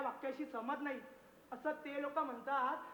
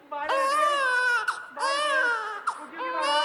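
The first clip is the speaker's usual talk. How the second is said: much higher, louder cooing; baby coo; 10 semitones higher, 10 dB louder than usual. Acted. Hushing the crying baby in a high loud coo.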